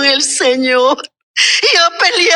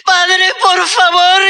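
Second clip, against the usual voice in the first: slow, crying plea to the Father; tearful plea; 3 semitones higher than usual. Retold or imitated. Mourning aunt begging God for her dead nephew, crying. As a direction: let the tears break through the words. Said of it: "yo lloraba".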